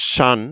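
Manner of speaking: শান in one quick syllable, breath held; held-breath quick pronunciation. Shown as a demonstration. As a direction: hold the air, then say শান quickly. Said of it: "বাতাস ধরে রেখে দ্রুত উচ্চারণ করতে হবে".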